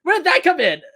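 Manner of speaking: disbelieving laugh over the words. Real, not acted. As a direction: burst out laughing at the absurdity. Baffled by Rita's Southern accent.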